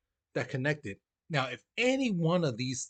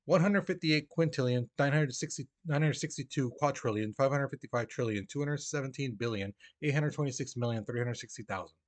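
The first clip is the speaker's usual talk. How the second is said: fast. Shown as a demonstration. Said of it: "I'll say it again, you know, fast".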